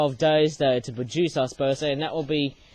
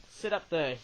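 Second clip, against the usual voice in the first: much softer, murmured to the toy; soft teasing aside; 12 dB quieter than usual. Real, not acted. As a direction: quietly tease the little ghost figure on the shelf. Talking softly to a toy figure.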